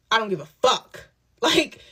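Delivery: laughing defiance. Retold or imitated. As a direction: laugh off the threat with a defiant curse.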